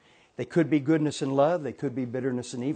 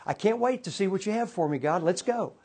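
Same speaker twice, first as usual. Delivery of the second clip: eager and bright, a touch higher; happy eager; 4 semitones higher than usual. Retold or imitated. Coworker to God after being fired, eager. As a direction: lift it with glad expectancy. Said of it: "So she's happy".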